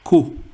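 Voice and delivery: "Q" said as a short, lone "koo"; German letter name. Shown as a demonstration. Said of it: "is equivalent to this".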